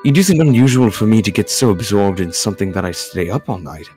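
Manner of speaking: lightly voiced, formal gentleman; polite game character. Game character explaining the all-night absorption, politely. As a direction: explain it courteously, with careful wording. Reads visual novel dialogue.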